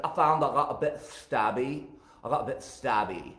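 repeating it in a mock Scottish voice; imitated Scottish queen, matter-of-fact; attempted Scottish accent. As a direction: put on a rough Scottish accent. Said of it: "I can't do her accent, but she said".

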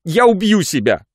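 высоко и громко, с рыданием в голосе; выплакивает обиды, навзрыд; рыдая. A narrator's reading. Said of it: "продолжала она, рыдая". (рыдая, жалуется Жоржу высоко и громко)

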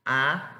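drawn-out "A", like ah; stretched ah sound on "A"; long A sound. Shown as a demonstration. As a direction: hold a single "A" long. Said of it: "Pero más larga".

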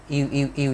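"yêu" repeated as a gliding "ee-oo" sound; "yêu, yêu, yêu" as separate gliding vowel examples. Shown as a demonstration. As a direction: demonstrate "yêu" three times as the learners' vowel for new. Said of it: "chúng ta hay đọc là".

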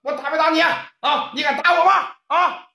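high, crowing taunt; gloating taunt. Acted. Wang Jianjun gloating over beaten Ye Laosan, high crowing taunt. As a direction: rub his face in it. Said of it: "王建军讲话".

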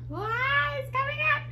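high-pitched, thrilled squeal; excited squeal. Real, not acted. Painter watches the paint start coming up, excited squeal.

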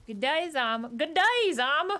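hammed-up, drawn-out Australian g'day; bad Australian accent. Streamer having another go at a sign, badly faked Australian accent. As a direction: push out a clumsy Australian accent. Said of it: "I can't do an Australian accent".

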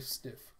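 soft, voiceless sniffs; imitated sniffing. Narrator acts out him smelling the blood, imitated sniffing. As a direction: sniff twice as if catching a scent. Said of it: "He smells the blood".

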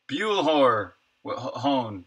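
fumbling toward a silent R in "hone"; stumbling pronunciation. Shown as a demonstration. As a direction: trip over "hor-", then try "hone" without the R. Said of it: "Man, that's hard to say".

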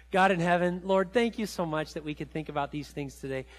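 calm, reverent prayer voice; closing prayer. Acted. Pastor closing the sermon in prayer, reverent. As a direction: pray gently to close the sermon.

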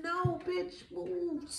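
high, soft put-on voice; Spirit's dismissal. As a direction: shoo them away in a quiet high voice. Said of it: "So Spirit said".

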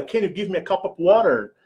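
American English with a rolled American r. Shown as a demonstration. Vlogger teaching the American version first. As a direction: say it like an American tourist. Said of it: "Ou em inglês britânico".

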